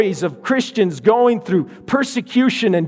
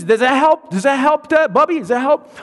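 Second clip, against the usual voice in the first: put-on high, coaxing toddler voice; a tiny girl offering a teddy bear; little girl voice; 6 semitones higher than usual. Toddler sister offering teddy to brother, high child voice.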